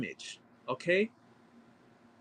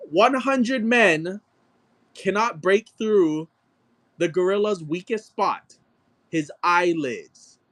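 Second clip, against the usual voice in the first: mock epic proclamation; 3 semitones higher than usual. Mocking the zookeeper's claim.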